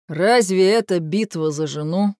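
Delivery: ordinary delivery, nothing marked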